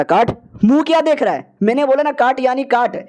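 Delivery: high, sharp furious command; angry order. Acted. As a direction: bark the order at him. Senior furious at the boy.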